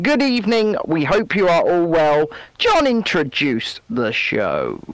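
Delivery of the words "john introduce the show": mock formal cue. Hands over to co-host, grandly.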